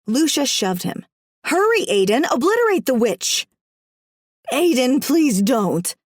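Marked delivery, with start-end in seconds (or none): 1.4-3.5 high, loud urging; urgent shrill demand. Acted. Villain urges husband to kill. 4.5-6.0 slow, pleading, slightly raised; sobbing plea. Acted. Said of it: "I sobbed".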